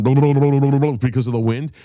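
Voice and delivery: imitated lips flapping in the wind; rapid rubbery blubbering noise. Imitating drummer's lips out the car window, flapping blubber. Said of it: "his lips are going".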